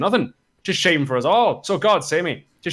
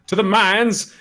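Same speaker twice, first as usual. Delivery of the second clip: a lightly comic Welsh officer, a touch higher; silly Welsh captain; 6 semitones higher, 4 dB louder, slower than usual. Acted. Reader picks a silly voice for the captain's line. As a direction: play Fluellen as a silly character. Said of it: "so I can pick a silly character".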